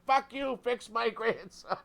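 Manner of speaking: high, loud retold outburst; imitated angry British grandma. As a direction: tell them off as a feisty British grandmother. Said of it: "she's got a British accent".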